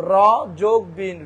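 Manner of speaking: "রবিন" split as ro, plus, bin; two syllables. Shown as a demonstration. Teacher breaking a name in two, "র" apart from "বিন". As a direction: separate "র" and "বিন" with a gap. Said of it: "ভাঙে যে দুটো দুটো পাই".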